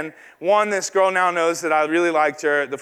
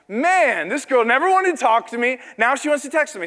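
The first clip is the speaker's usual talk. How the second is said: retold amazement, pitched up; amazed inner reaction; 6 semitones higher than usual. Young man to himself about the girl texting, amazed. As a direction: replay the disbelief at a higher pitch.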